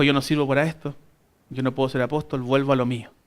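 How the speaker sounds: low, subdued resignation, no actual crying; understated tearful defeat. Retold or imitated. Peter giving up on being an apostle, dejected. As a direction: give up softly, a touch of sorrow. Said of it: "probablemente se fue llorando".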